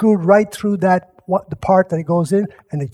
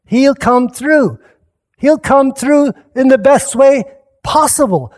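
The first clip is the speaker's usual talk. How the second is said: preaching; 5 semitones higher, 3 dB louder than usual. Acted. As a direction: preach it with rising conviction. Preaching close.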